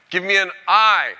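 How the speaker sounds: high, loud drawn-out cheerleader call; cheer yell. Pretend. Speaker leading an auditorium in a football cheer, yelling. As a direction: yell it out to rally the crowd. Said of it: "I'm gonna yell something out".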